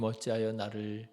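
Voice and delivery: whispered, breaking off; anguished whisper. Pretend. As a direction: let the question die into a whisper. Jesus's last words on cross.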